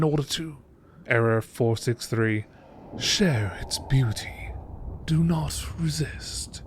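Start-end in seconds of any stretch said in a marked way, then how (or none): 1.1-2.4 low, toneless error readout; a lightly lowered machine alert; system error readout. Acted. Databank breaks off to report an error code, flatly read out. 3.0-6.6 slow, measured hypnotic command; hypnotic lure. Acted. Mesmerizing creature luring its victim, slow and entrancing.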